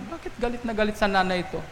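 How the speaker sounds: ordinary talk, nothing marked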